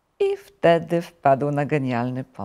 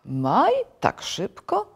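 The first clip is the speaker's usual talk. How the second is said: astonished questions leaping up in pitch; amazed rising tone; surprised; 9 semitones higher, slower than usual. A narrator's reading. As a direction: question it in disbelief. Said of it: "zdziwił się ropuch".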